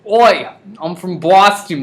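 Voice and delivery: loud mock Boston accent opener. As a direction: throw out a brash Boston "Oi". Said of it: "what does a Boston accent sound like?".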